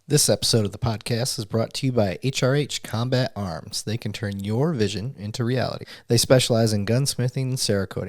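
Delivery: upbeat, punchy sponsor read. Acted. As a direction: sell it like a radio spot. Host reads sponsor ad.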